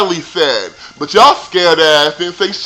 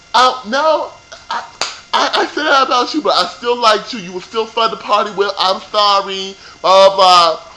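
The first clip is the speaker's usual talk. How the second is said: mocking quote; 4 semitones higher than usual. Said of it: "So she was like".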